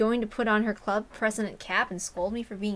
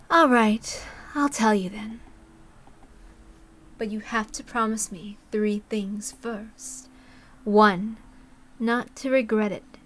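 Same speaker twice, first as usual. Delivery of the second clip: louder, deliberate conditions; Takano voice; 3 dB louder, slower than usual. Acted. Takano setting terms for the boy, deliberate and loud. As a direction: lay down the rules like a secret pact.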